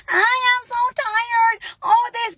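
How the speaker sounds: mock complaining. Mother mocking a complaining parent, whiny and high. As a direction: play a kid whining that they're exhausted. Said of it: "watching you complain, like".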